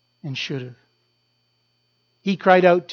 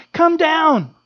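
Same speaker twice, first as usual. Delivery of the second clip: taunt; 8 semitones higher than usual. Retold or imitated. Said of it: "They taunt him, saying".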